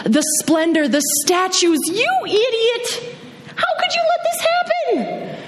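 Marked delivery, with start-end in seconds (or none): 1.9-5.4 harsh self-scolding. Acted. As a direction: berate yourself like a furious inner critic.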